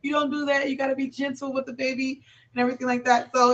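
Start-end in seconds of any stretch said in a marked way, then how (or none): 0.0-0.7 gentle correction. Retold or imitated. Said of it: "I talked to her like". 0.7-2.2 gentle correction. Retold or imitated. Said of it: "I talked to her like".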